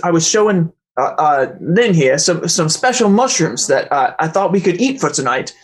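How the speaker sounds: the GM hams up Mister Lang as a mild Aussie; Aussie accent. Acted. GM voicing Mister Lang to the party, lightly Aussie accent. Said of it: "I just did that in an accent".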